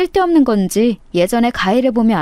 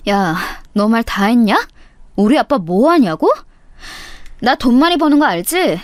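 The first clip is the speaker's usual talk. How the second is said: usual speaking voice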